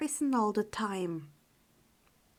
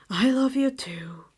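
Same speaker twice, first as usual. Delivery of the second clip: whispered with a smile; tender whisper to a pet; smiling tenderness; 4 dB louder than usual. Acted. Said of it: "he smiled at her".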